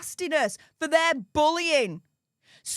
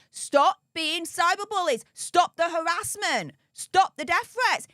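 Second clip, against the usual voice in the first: mock telling-off, pitched up; imitated scolding; 3 semitones higher than usual. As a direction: rattle off orders as an exasperated critic. Acts out him scolding the squad.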